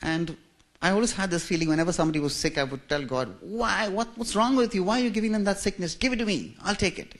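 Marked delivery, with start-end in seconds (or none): 3.4-7.1 higher, earnest pleading; a boy's higher pleading voice; child pleading with God. Retold or imitated. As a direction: beg God to take the sickness.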